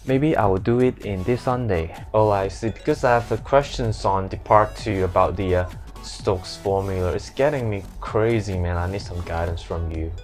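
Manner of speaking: put-on flat, monotone Hong Kong English accent. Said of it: "all these words in Hong Kong accents".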